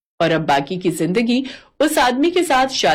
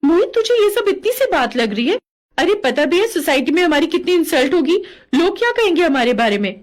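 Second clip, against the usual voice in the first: indignant outburst; 6 semitones higher than usual. Acted. Outraged at friend's dismissal.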